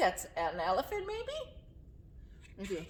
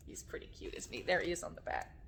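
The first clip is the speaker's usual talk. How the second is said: usual speaking voice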